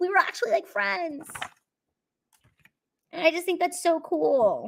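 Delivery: talking through tears. Talking about being real friends with Megan, crying while talking. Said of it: "it's making me cry".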